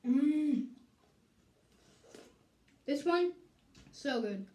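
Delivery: candy at the lips; talking around sweet; sucking on candy. Real, not acted. Seen 1: Red candy held in or at the mouth, sucking, throughout the clip.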